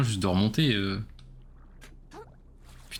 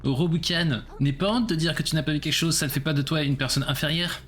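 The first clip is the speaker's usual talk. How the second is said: inner voice; 5 semitones higher than usual. Retold or imitated. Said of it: "faut se dire".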